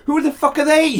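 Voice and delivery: high, loud mock challenge; comic indignant outburst; defendant challenging gallery. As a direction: demand it as the outraged defendant, laughter behind it. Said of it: "White turned to the public gallery".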